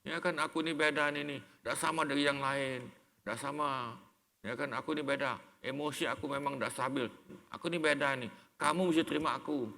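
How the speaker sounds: defiant self-excuse. Retold or imitated. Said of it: "jangan begini".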